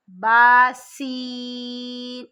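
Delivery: باسین drawn out with a whistling s; slow recited باسین with a hissing سین; whistled seen. Shown as a demonstration. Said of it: "سین سیٹی کی آواز میں پڑھیے".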